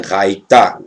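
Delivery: "Raitá" ending on a plain open vowel; silent final he. Shown as a demonstration. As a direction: say "Raitá" with no h sounded at the end. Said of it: "então ele é mudo". ("Raitá" com o re final mudo)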